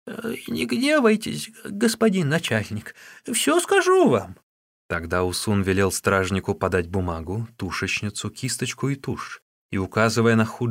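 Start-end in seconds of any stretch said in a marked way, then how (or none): 0.1-4.4 put-on a much higher, slow, wheedling old-woman voice; old Wang begging Wu Song not to be angry, in a high, slow voice. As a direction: plead in a high, creaky crone voice. Old Wang begs the officer.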